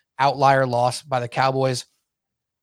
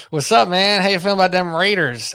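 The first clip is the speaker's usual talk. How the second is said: teasing greeting, louder and higher; smirking tease; 4 semitones higher, 3 dB louder than usual. Retold or imitated. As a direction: needle a rival fan with a smirk. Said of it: "I almost said it with a smirk on my face".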